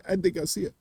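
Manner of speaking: mock tearful impression; Andy Garcia. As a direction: say it on the edge of tears. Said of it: "sounded like he was about to cry".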